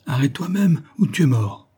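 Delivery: high start, dropping at the end; exclaimed threat. A narrator's reading. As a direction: cry out a threat to an enemy. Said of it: "s'écria Élim". (menace lancée en s'écriant)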